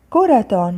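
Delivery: كرة read with a final -tun; tanween damm. Shown as a demonstration. Teacher reading out the word list, tanween damm on كرة. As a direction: sound out كرة as "kuratun". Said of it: "ضم".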